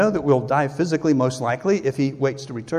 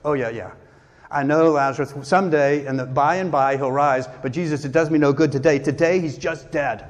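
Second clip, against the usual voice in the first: acting out an exasperated Martha, louder on the protest; mildly hammed-up weary believer's protest; dismissive Sunday school answer; 3 dB louder than usual. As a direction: brush it off with a rote answer, then push the complaint. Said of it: "she's given the Sunday school answer".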